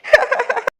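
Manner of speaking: short, high burst of sobs; hammed-up crying; acted sobbing. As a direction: sob after a self-pitying lament. Weeping over her marriage.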